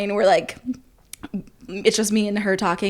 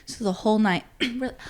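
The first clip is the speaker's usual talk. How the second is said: normal talking voice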